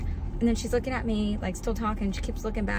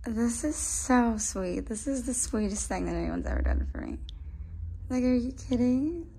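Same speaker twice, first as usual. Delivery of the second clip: touched; 2 semitones higher, 5 dB quieter than usual. Real, not acted. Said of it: "I'm so happy".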